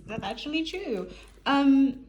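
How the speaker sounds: put-on influencer TikTok accent. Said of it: "I give myself TikTok accent".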